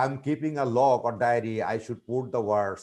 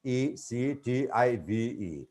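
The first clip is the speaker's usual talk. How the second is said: slow, letter-by-letter spelling; slower than usual. Shown as a demonstration. Teacher spelling a new word for students, spelled out slowly. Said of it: "First, I teach the spelling".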